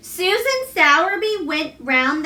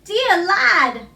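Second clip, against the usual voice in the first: tremulous; 6 semitones higher, 4 dB louder than usual. A narrator's reading. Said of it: "she broke out tremulously".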